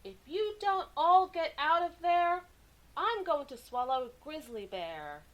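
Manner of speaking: a child's hammed-up shout that fades as it goes; loudest yell. A narrator's reading. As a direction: bellow it to scare them all out. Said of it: "he yelled his loudest yell".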